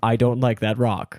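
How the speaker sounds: slow, lightly imitated character voice; Marcus the Worm. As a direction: imitate an odd little TikTok character. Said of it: "Marcus the Worm on TikTok".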